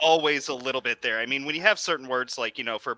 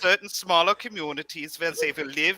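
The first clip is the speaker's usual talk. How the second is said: mock German villain; 5 semitones higher than usual. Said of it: "the German accent sounded evil".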